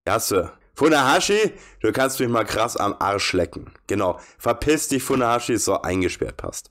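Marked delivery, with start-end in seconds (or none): 0.7-3.7 angry outburst. Acted. Swearing at the game boss, angrily. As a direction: spit the name out in anger.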